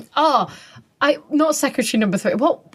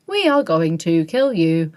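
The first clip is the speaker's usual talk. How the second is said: low, evenly spaced robot monotone; lightly voiced mechanical threat, syllable by syllable; Cyberman imitation; 4 semitones lower than usual. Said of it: "At least they have, like".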